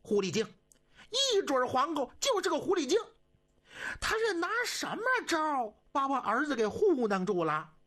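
put-on high, fast, seething old empress; furious dowager. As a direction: spit out the insult in outrage. Cixi's furious inner voice.

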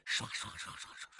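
fast whispered swish of quick feet; running footsteps sound. Acted. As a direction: rattle off the footsteps, breathy and fast. (快速轻声模仿脚步声)

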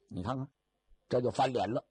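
ordinary delivery, nothing marked

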